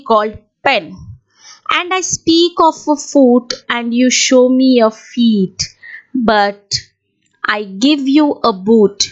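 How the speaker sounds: measured classroom recital of a poem; careful, deliberate verse reading; poem recitation. Shown as a demonstration. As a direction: recite it line by line for students, pausing between lines. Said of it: "I'll be reciting the poem for you".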